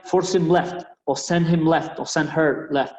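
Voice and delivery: "force him left" said in English, slowly; English phrases. Shown as a demonstration. Coach giving players the English call: clear English. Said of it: "diría".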